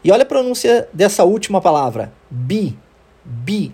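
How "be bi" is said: "be" and "Bi" with a long ee vowel; isolated "Bi" with a clear ee; long I sound. Shown as a demonstration. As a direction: demonstrate the ee in "be", "Bi", cut before the final consonant. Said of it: "é som de I".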